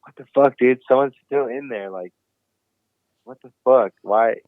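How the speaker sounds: mock exasperation at the locked-up bathroom; half-acted angry gripe; annoyed outburst. Retold finding the bathroom occupied.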